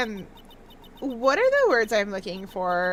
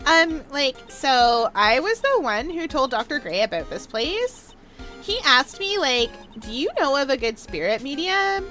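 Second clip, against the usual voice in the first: put-on Valley Girl accent. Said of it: "do a Valley Girl accent".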